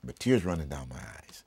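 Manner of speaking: tearful near-whisper; words catching on real tears; choked up. Real, not acted. Pastor moved recalling Barbara, tearful whisper. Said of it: "I didn't mean to get emotional".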